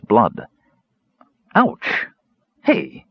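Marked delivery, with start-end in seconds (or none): 1.5-3.0 sudden high yelp of pain; exclaiming in pain. Acted. Karaman jabbed by the cat's claws, a high startled yelp. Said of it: "he exclaimed".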